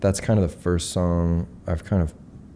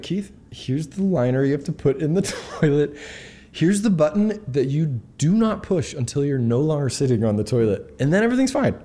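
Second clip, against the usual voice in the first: high, laughing put-on Australian accent; host showing a guest around, in an Australian accent; 8 semitones higher than usual. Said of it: "is that your Australian accent".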